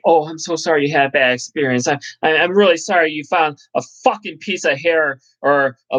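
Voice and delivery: sugary customer-service sorry; mock Uber support. Driver mocking Uber apologizing to a passenger, sugary. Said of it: "Uber's gonna be like".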